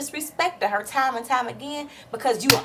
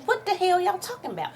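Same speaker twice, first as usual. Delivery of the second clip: higher, hard demanding question; mock furious demand; 8 semitones higher than usual. Vlogger confronting Apollo instead of Phaedra, fired up. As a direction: push him to answer, fired up.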